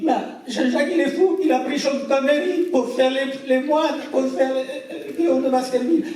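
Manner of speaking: very high, loud, laughing mock outrage; appalled wife. Renate telling Jean-Jacques he's mad to cast Connery, high laughing outrage. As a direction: squeal it like a scandalised lady, laughing through it.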